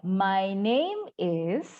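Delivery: "My name is" very slow, "name" lifted, "is" dropping; "is" falls, drawn out for students to copy; falling intonation. Shown as a demonstration. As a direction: stretch "name", then step down on "is". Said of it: "turun ya".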